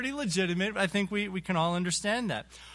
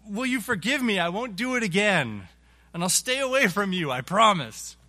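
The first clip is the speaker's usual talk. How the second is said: pleading promise; 3 semitones higher, 4 dB louder than usual. Acted. Offender begs forgiveness again.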